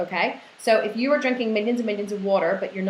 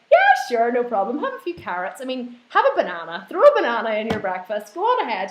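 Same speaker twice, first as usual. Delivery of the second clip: mock permissive; 3 semitones higher, 5 dB louder than usual. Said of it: "I'm not gonna say".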